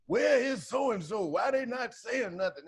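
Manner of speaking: high, slow whiny demand; mock pundit. Mocking critics demanding comics speak out, high whiny voice. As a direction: lightly mimic a nagging TV host. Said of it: "like Don Lemon".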